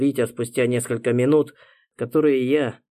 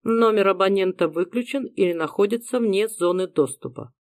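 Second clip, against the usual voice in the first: higher automated phone recording voice; robotic phone message; 8 semitones higher than usual. Acted. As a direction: read it like a machine message. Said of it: "слушая механический ответ".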